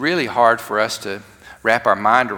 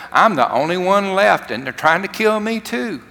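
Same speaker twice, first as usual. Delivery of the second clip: pleading despair; 6 semitones higher than usual. Acted. Preacher voices Elijah again.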